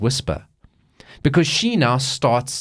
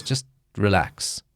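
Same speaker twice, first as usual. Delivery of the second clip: calming doctor; 4 semitones lower, 4 dB quieter than usual. Acted. Doctor soothing in retold scene.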